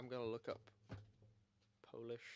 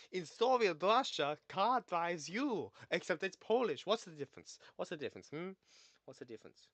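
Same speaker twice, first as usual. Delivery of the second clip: hammed-up Russian accent, loud then fading; mock Russian accent; 6 semitones higher, 10 dB louder than usual. Streamer puzzling over Polish versus Russian, mock Russian accent. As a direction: put on a thick, bad Russian accent. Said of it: "Russian accent".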